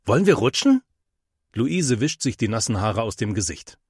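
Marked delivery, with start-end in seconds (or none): 0.0-0.8 calling out to friends, a bit louder and higher; eager call across the pool. A narrator's reading. (Henry ruft seinen Freunden eifrig zu)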